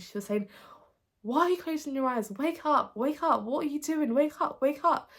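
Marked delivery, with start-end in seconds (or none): 1.2-5.0 furious, high, loud angry shouting. Retelling a vision of their mum shouting at them to wake up: imitating mum angrily shouting. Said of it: "she was really angry at me".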